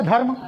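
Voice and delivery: धर्म with the र tucked in quickly before म; short half ra. Shown as a demonstration. Teacher models धर्म for students with a quick half र. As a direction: say धर्म giving र only a brief touch. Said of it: "रा को हम बहुत कम, कम देर पढ़ेंगे".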